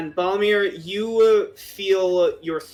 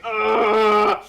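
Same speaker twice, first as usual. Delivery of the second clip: higher-pitched, drawn-out "ugh"; frustrated groan; 4 semitones higher, 4 dB louder than usual. Acted. Klaus tangled up in Runa's bra, frustrated groan. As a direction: groan like you're stuck and struggling. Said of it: "and he's like".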